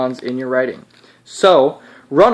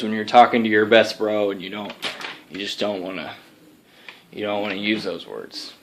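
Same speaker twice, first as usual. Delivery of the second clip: put-on Texas accent; 3 semitones lower than usual. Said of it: "I got a Texas accent because I'm his alter ego".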